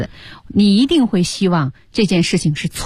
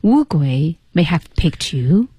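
slow, measured line rising on "you"; slower than usual. Shown as a demonstration. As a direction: lift the end of "picked you" upward. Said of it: "有一个声调".

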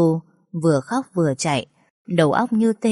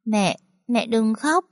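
put-on slow, higher little child's voice; toddler comforting; 4 semitones higher, slower than usual. A narrator's reading. Two-year-old touches his crying mother's eyes, slow and childlike. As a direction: gently soothe mum like a tiny boy. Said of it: "Bình mới hai tuổi".

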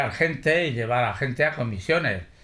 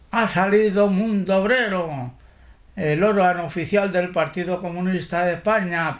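crowd crying out the news, higher; calling out; 5 semitones higher than usual. Retold or imitated. People leaving the local, shouting that Mundo Obrero is out. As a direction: proclaim the paper's release to the street. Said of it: "a voz en grito".

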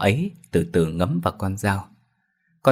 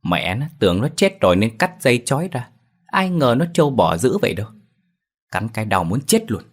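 pitched higher, annoyed rant; angry grumbling; 4 semitones higher than usual. Acted. Bitten butcher complains angrily to his wife, voice pitched up. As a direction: vent the anger at the stubborn dog. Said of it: "tức tối nói lớn".

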